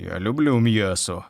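lightly voiced greedy wolf saying люблю with relish; a hint of a hungry wolf, leaning on люблю; licking his lips. A narrator's reading. Wolf telling the boy he loves meat, lightly greedy. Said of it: "облизнувся вовк".

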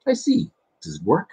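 put-on the boy in the book asks the mole; boy's voice. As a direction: read it as the curious little boy.

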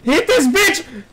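high, loud battle yell; urgent shout. Real, not acted. Player urging a hit on an opponent, urgent shout. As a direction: shout the order, drawing it out. Calling out attack in game.

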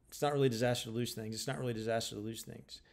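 rattled off fast; fast, dismissive paraphrase; quick paraphrase. Retold or imitated. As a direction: breeze through it as no big deal. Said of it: "She's not saying the line verbatim".

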